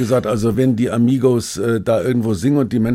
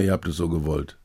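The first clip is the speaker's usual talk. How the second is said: muttered aside; 4 semitones lower, 6 dB quieter than usual. Pretend. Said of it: "da denke ich mir immer".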